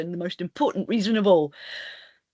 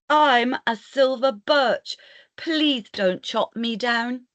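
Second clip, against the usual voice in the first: pleading tree; 3 semitones higher, slower than usual. Acted. Silver birch tree pleads.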